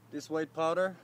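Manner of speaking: talking through a face mask; muffled behind a mask. Real, not acted. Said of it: "if I sound muffled, that's because I have my mask on".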